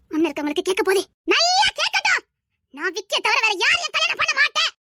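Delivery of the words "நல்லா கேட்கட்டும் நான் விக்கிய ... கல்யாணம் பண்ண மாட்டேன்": high-pitched defiance, meant to be overheard; defiant outburst. Acted. Daughter refusing any groom but her lover, defiant outburst. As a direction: fling it out higher, for all to hear. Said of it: "கத்தாத, கத்தாத".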